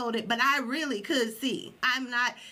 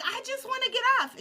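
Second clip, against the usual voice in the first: pained plea; 12 semitones higher, much faster than usual. Retold or imitated. In pain on the nails.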